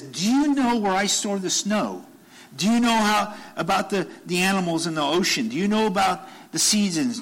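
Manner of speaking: high, booming divine challenge; God's challenging questions. Retold or imitated. God challenging Job with his questions, commanding. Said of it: "he says".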